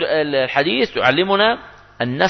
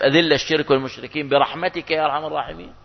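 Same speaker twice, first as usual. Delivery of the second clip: softer, questioning repeat with a rising end; doubtful question; 5 dB quieter, faster than usual. Shown as a demonstration. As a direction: ask it back as if doubting it fits. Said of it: "طب بتناسب".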